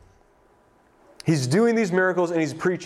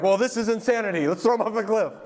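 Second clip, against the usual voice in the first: mock outrage; 6 semitones higher than usual. Imitated crowd turning on Jesus.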